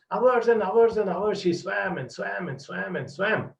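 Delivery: high, loud stretched-out telling; storyteller building the swim's drama; dramatic storytelling. A narrator's reading. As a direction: make the hours feel endless. Dramatic storytelling of long swim.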